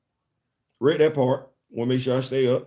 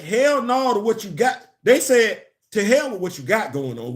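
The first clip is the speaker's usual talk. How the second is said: mock defiant fan voice, starting high; imitating defiant fans; 6 semitones higher than usual. Daredevil fans telling Marvel no, lightly acted defiance. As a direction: act out fans refusing, pitched up at first. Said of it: "Daredevil fans, they said".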